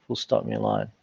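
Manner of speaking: dropped low for the dictation command; dictating. Acted.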